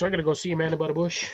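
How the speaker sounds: words run together fast; rushed. Real, not acted. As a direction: blurt it out quickly. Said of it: "the way you said it, it sounded the other way".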